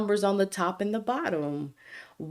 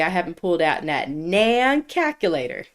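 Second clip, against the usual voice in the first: put-on Alabama accent. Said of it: "in my most Alabama accent ever".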